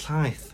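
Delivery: llaeth opening on the hissed Welsh LL; South Welsh word. Shown as a demonstration. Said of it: "If you're from South Wales".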